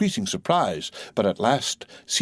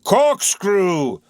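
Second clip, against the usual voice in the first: a sudden sharp cry; eager cry; 11 semitones higher, 7 dB louder than usual. Acted. Captain finding the word, eager cry. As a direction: blurt it out in triumph. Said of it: "cried Ahab".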